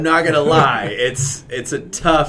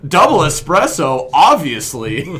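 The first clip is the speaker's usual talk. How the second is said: American stereotype; 5 semitones higher, 5 dB louder than usual. Pretend. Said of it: "our American stereotype".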